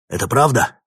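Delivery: high, loud eager question; excited question. A narrator's reading. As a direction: burst in eagerly. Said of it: "возбуждённо спросил Гордецкий".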